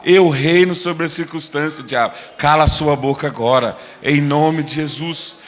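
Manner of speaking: loud, firm rebuke; commanding declaration. Acted. Believer silencing the devil in Jesus' name, commanding. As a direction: order the enemy silent with authority. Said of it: "você vai falar".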